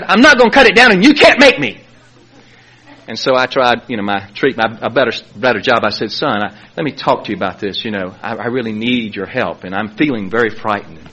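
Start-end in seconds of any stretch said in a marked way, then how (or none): 0.0-1.8 higher-pitched mock teenage defiance; defiant refusal. Son refusing his father over the TV, defiant. 6.1-11.1 low, soft, careful entreaty; meek plea. Retold or imitated. Father trying a better job with his son, meek plea.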